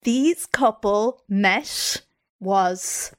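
slow, suspenseful scene-setting; storytelling intro. Acted. Host giving co-host hints about a couple, dramatic storytelling. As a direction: set up the mystery couple with measured pauses.

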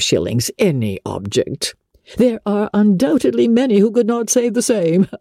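lightly voiced self-important parson, a hint of smug condescension; pompous clergyman. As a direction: read it as a mildly pompous country vicar showing off his patron. Mr Collins quoted at length.

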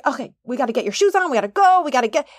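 put-on hurried, impatient mom rushing the kids; mock grumpy nagging to get going; a rushed, grumpy mom hustling kids out the door. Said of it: "when I'm grumpy".

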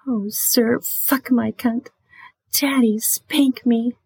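high, slow whispered plea; slow high whispered role-play begging; submissive whisper. Shown as a demonstration.

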